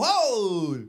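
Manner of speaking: mock collective "oh!"; drawn-out reaction to a fall; crowd's gasped "oh". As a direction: imitate startled onlookers.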